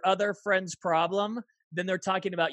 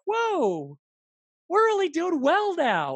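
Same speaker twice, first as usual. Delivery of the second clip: high, loud, amazed whoa; excited mock wonder, pitched up and loud; amazed delight; 12 semitones higher, 6 dB louder, slower than usual. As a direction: burst out like a couple amazed at their progress. Imagined happy spouse a year on.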